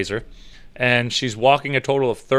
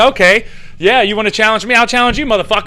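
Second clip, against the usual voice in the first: loud, high hyped-up challenge; wrestling promo; 6 semitones higher, 4 dB louder than usual. Pretend. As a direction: call him out like a heel. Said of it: "And I'm like".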